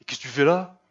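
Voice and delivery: like bumping into a friend somewhere unexpected; mock surprise at meeting someone; surprised greeting. Shown as a demonstration. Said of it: "surpris de rencontrer une personne".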